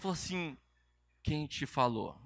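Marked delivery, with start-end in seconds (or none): 1.2-2.2 low, subdued imitation of someone crying; understated tearful question; retold tearful question. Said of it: "Mas ela falou chorando".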